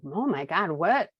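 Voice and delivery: floored, reach for words; stunned disbelief. Retold or imitated. Sister stunned that her brother apologized, loud amazement.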